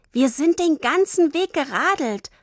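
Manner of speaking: put-on high, proud child. Girl telling Suse how far they cycled, proud. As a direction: say it chest out, proudly. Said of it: "Tini sagte stolz".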